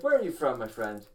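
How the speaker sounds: put-on Romanian cabbie in a Count Dracula accent. Romanian cab driver asking his passenger where he's from, Count Dracula accent. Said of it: "sounds like Count Dracula. That's the accent".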